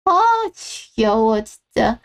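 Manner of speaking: slow, drawn-out exasperation; weary, exasperated groan of complaint; fed up. Acted. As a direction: drag it out, sick of hearing it. Daughter-in-law fed up in quarrel.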